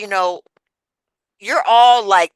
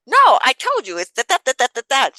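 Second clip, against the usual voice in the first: annoyed refusal; 8 semitones higher, 6 dB louder than usual. Retold or imitated. Refusing Cheryl a second time.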